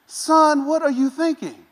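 put-on high, disbelieving rebuke to a reckless kid; incredulous scolding. Preacher scolding David for grabbing the bear, high and incredulous.

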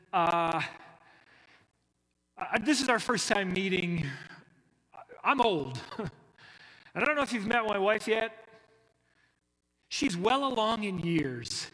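lightly voiced awkward old priest, fast; a hint of a flustered old Zechariah; hesitant old man. Zechariah to the angel, lightly voiced and flustered. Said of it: "is how he says it".

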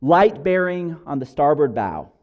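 lookout's loud call, drawn from a story. Acted. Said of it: "this call out".

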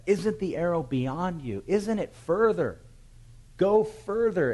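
high, loud, slow call across the field; crying out. Acted. Jonathan calls after the lad across the field, loud and high. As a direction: call far out to the running boy, stretching every word. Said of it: "Jonathan cries out after the lad".

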